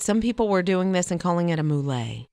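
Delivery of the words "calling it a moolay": mullet said French-style as moo-LAY; French pronunciation. Retold or imitated. Co-host telling what some people call the haircut, mullet pronounced French-style. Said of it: "A French pronou-, pronunciation of the mullet".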